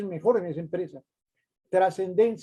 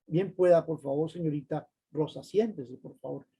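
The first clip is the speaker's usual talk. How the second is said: polite doorman tone; 2 semitones lower than usual. Shown as a demonstration. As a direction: gently invite the visitor to sit. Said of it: "El tonito, que cambie el tonito".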